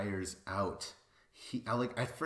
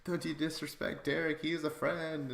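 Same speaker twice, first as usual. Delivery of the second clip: higher, half-shouted fake scolding; mock outrage; 7 semitones higher than usual. Scolding Bananas to defend Derek, hammed-up shouting. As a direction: yell at the screen in mock anger. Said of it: "I'm like".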